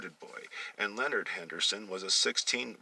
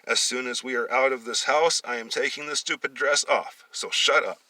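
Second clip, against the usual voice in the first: louder scolding; 5 semitones higher, 5 dB louder than usual. Acted. Leonard scolding his brother, somewhat louder. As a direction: warn him firmly. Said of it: "was scolding him".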